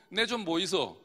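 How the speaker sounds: brief Gyeongsang-accent demo; Gyeongsang dialect. Shown as a demonstration. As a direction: say it like a Gyeongsang local. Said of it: "경상도".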